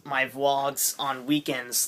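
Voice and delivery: slow, oddly drawn out; weird slow delivery. Real, not acted. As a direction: stretch the words out strangely. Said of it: "that was weird".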